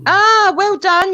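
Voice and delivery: sarcastic praise. Real, not acted. Debater mocks rival for finally getting the slang, sarcastic. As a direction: stretch out the sarcastic well done.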